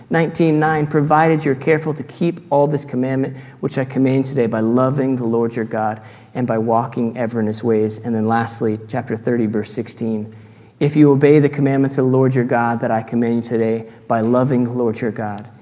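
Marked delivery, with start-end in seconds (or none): 0.9-8.0 solemn public reading of scripture. Acted. Reads Deuteronomy aloud. 10.8-15.5 louder, proclaiming reading voice; solemn public reading of scripture. Acted. Reads Deuteronomy aloud.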